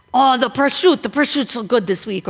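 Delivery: lightly voiced Italian mom; a touch of Italian mom fussing over food; 意大利妈妈. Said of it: "dressed up like an Italian woman".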